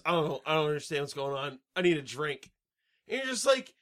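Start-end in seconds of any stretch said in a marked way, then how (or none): 0.0-2.5 low, soft, mumbling confused groom; dazed groom. Retold or imitated. Mocking the movie groom, low and soft. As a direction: play the lost groom quietly.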